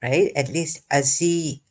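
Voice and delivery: ordinary talk, nothing marked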